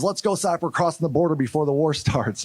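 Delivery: retold urgent marching order; sergeant rousing the team. Sergeant waking psyop team before the war, rousing order. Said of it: "He goes".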